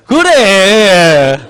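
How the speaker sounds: loud, very drawn-out cry; mock exasperation. Teacher reacting to the class, mock exasperation. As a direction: stretch it out long and loud, playfully.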